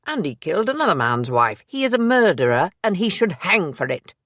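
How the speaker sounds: he wants this man hanged, press it; angry insistence. Acted. Stratton to Maisie, defending the case, angry and loud.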